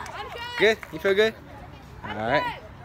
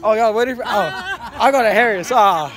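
surprised; 2 semitones higher, 5 dB louder, slower than usual. Real, not acted. Surprised at rival fans.

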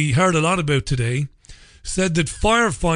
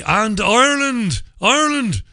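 high, incredulous exclamation; mock amazement; 8 semitones higher than usual. Real, not acted. Radio host marvels that Ireland joined in, incredulous. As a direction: pitch the country's name way up in disbelief.

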